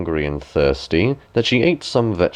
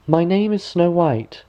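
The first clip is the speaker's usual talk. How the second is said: Snow White; 8 semitones higher than usual. A narrator's reading. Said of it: "she answered".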